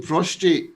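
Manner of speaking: "prostrate" with an extra R in the second syllable; imitated mispronunciation. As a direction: mimic the slip: "prostrate", R after the T. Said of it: "you're saying prostrate".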